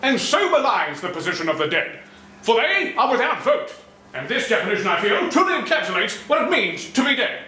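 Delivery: theatrical villainous pontificating, pitch swinging up; affirming and denouncing. Pretend. Pacing cartoon bad guy holding forth, theatrical denouncing. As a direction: pronounce it like a grand orator. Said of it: "pace up and down while affirming and denouncing".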